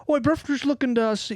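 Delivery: badly faked Brit, half Australian; British accent sliding Australian. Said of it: "it's more Australian".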